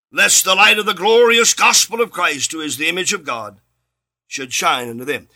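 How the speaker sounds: measured, solemn reading of a Bible verse; scripture reading. Acted. Reads the scripture verse aloud.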